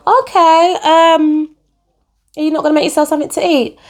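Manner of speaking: high fast earnest question; naive girlfriend. Retold or imitated. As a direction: ask innocently why he won't cook. Acted dialogue, her younger self.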